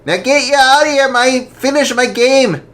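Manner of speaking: high, loud brusque order; gruff dismissal. Acted. Father ordering the girl out, loud and gruff. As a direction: shoo her away.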